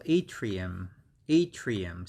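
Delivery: ATRIUM as AY-tree-um, first syllable stressed; model pronunciation. Shown as a demonstration. Teacher repeating the pronounced word, careful model. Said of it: "We pronounce this one as".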